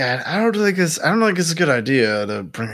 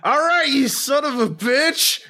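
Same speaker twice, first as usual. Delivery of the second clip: high-pitched acted challenge; put-on high voice for a taunt; acted confrontation. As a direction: call him out in a raised, strained pitch. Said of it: "I'm just gonna go like".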